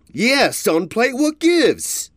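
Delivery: high, loud taunting thug; brutish bully. A narrator's reading. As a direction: shove him around with words.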